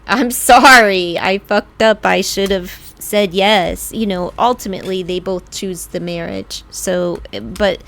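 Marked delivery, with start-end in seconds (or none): 0.1-3.9 louder mock-groveling apology. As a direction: beg forgiveness, imitating her grovel. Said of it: "she comes back groveling".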